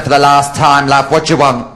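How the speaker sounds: high, fed-up reply; acted loss of patience; exasperated retort. Exasperated retort to old man.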